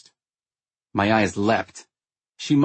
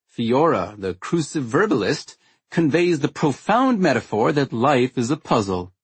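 dry, mocking sarcasm; sarcastic voice; 4 semitones higher than usual. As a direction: lay the sarcasm on thick. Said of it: "using my finest sarcastic voice".

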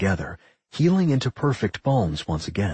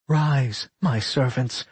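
higher-pitched command to servants; 4 semitones higher, slower than usual. A narrator's reading. Rowan summoning his skeleton servants, commanding. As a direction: give a measured order to underlings. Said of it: "Rowan commanded".

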